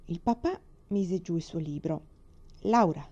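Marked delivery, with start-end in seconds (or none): 2.6-3.0 put-on understated stern father calling a child; firm, falling reprimand. A narrator's reading. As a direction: say the name with mild, narrated severity. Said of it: "disse severamente".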